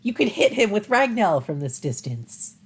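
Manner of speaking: urging the hero on; urgent heroine voice. Acted.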